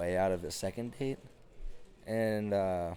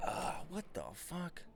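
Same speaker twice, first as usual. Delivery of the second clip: mock shock; 7 dB quieter than usual. Hearing a girl at the bar is a freshman, comic shock. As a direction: recoil in comic horror.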